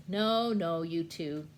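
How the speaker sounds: loud bossy host voice; Uncle Sam voice. Acted. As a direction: shoo them back to their places. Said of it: "And Sam says".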